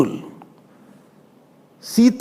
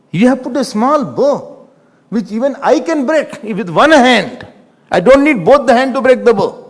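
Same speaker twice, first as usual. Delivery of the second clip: indignant boast; 3 semitones higher than usual. Retold or imitated. Acts Lakshman boasting over small bow.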